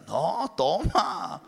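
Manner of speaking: slow coaxing tempter voice; a hint of a sly tempter; tempting Satan. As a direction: coax them to drink, slow and sly. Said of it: "también Satanás".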